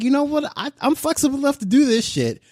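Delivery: high-pitched retold resolve; retold self-talk. Telling co-hosts what he decided, in a high quoted voice. Quoting own eager resolve.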